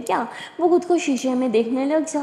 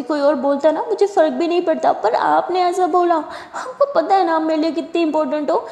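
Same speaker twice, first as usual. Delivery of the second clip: tearful; 5 semitones higher, 3 dB louder than usual. Acted. Simran hurt, near tears, confessing.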